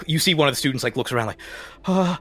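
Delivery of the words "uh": higher-pitched reluctant agreement; nervous student. Acted. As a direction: agree hesitantly, caught off guard. Startled student picked for procedure.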